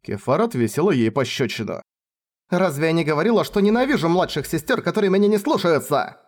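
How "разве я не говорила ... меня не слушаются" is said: higher, sharp scolding yell; angry shout. Acted. Kefar scolding her hysterical little sister after the slap, angry. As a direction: snap her out of it with anger. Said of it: "сердито заорала на сестру".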